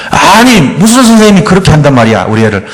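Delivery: rising indignant protest, then trailing down; indignant on the child's side. Shown as a demonstration. Mom taking her child's side against the teacher, indignant. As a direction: take the child's side, outraged. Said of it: "이렇게 먼저 해주라는 거예요".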